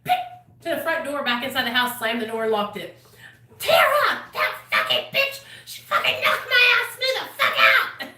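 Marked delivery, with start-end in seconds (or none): 3.6-8.1 mock drunken rant. Drunk rant retold about Tara.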